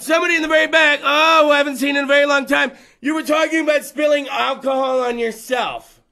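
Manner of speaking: loud, fast call across the room. Real, not acted. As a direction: shout to the back row. Calling out to back of room.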